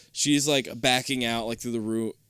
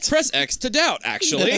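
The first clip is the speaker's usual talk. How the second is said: laughing; 12 semitones higher, 4 dB louder than usual. Real, not acted. Meme joke, laughing.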